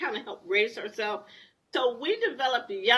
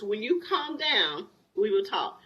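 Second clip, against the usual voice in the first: calm and steady. Retold or imitated. Husband calming yelling wife.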